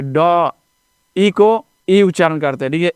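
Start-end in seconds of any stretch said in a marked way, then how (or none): 0.0-0.5 ड as an open "duh", not "dee"; letter sound ड, "duh". Shown as a demonstration. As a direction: sound out ड with tongue curled back. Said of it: "डी को हम डी उच्चारण नहीं करेंगे".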